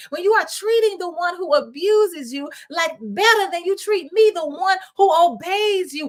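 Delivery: put-on hurt older son confronting his father; older son pleading with his father in aggrieved protest; wronged brother's protest. Preacher voicing the wronged older brother.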